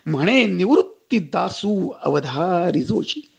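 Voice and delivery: slow, measured sacred verse; invocation recital. Acted. Preacher quoting the salutation to Ganesha, slow devotional recitation. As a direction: recite the opening invocation with drawn-out syllables.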